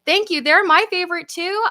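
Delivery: high, loud, delighted reply; delighted thanks. Real, not acted. Answering a viewer who loves the food reviews, delighted. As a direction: thank them with bubbly excitement.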